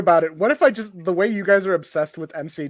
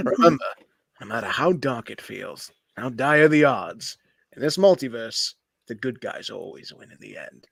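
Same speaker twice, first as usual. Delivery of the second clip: heroic rabbit speech; 5 semitones lower than usual. Acted. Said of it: "I really like how you just flipped on a dime".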